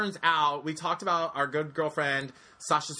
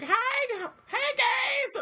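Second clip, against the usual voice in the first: very high squealed greeting; tourist calling out; slower than usual. Retold or imitated. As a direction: call out in a shrill squeal. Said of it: "they're like".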